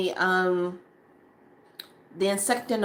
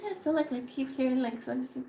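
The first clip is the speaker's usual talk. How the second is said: puzzled murmur; 4 semitones higher, 7 dB quieter, faster than usual. Retold or imitated. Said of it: "You're like".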